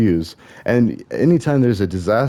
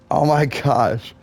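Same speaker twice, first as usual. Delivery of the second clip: amazed; 5 semitones higher, much slower than usual. Real, not acted. Sees the Mario head hat.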